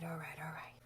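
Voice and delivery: low, very soft echo of the catchphrase; Matthew McConaughey. Acted. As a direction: drop it down quietly. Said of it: "female Matthew McConaughey".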